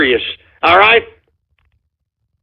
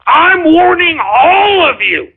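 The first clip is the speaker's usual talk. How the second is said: angry rant; 5 semitones higher than usual. Real, not acted. Host yelling at callers who mock his intro, angry. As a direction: warn them off like a furious father.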